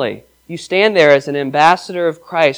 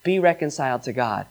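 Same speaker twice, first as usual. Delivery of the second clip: gentle plea; 3 semitones lower, 9 dB quieter than usual. Acted. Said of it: "goes out into the world and says".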